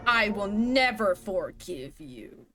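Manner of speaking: very slow, menacing ghost line; ghostly threat. Acted. Vengeful ghost refusing the schoolgirl, slow menace. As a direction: draw out each word like a curse.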